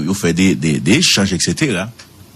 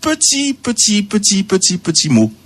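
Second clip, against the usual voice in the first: emphase aiguë; 11 semitones higher than usual. Shown as a demonstration. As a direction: raise the voice way up, stretching "petit, petit". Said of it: "repeating tiny word". (voix très aiguë, insistante)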